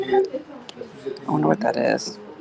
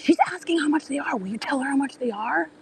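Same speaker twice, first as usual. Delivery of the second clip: imitating the husband; 8 semitones higher than usual. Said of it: "He goes".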